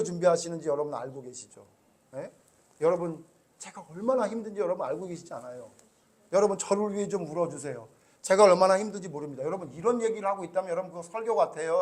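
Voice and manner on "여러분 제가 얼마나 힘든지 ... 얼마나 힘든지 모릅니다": whiny plea for sympathy; mock self-pitying preacher. Pastor mocking a self-pitying sermon, whiny. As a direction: play a preacher begging to be pitied. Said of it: "제가 이렇게 설교한다고 보세요".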